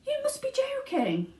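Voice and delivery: high astonished whisper. Acted. Grandpa Joe to Wonka, stunned whisper. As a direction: breathe it out unvoiced, stunned.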